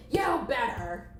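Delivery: sudden angry outburst; hammed-up bossy warning; threatening boss. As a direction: snap it at the assistant. Boss snaps at assistant.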